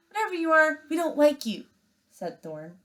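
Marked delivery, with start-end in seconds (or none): 0.1-1.7 high, loud sneering cub; threatening bear cub. Acted. Thorn threatening the robot, high cocky sneer.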